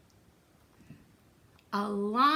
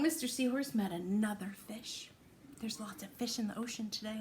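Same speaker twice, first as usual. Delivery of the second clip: whisper; 5 dB quieter, faster than usual. Acted. Whispered story line.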